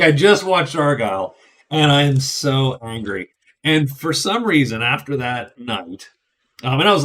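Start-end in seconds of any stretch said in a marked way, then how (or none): 0.0-3.3 hammed-up fury over a movie; mock angry outburst. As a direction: viewer ranting that he watched Argylle, in mock anger. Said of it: "He, he's like".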